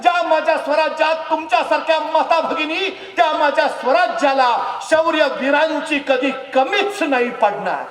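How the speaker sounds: high, loud proud shout; loud, high royal proclamation. Acted. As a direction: proclaim it loudly, standing tall. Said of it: "ताडकन उभा राहिले राजे".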